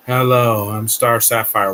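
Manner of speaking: mock unconvincing villain introduction; Star Sapphire. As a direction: lightly imitate a boring voice actress, drawn out. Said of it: "Wow, I don't believe you".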